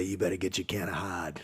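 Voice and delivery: imitated New Hampshire accent, dropped R; thick New Hampshire accent. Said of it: "in his thick, uh, New Hampshire accent".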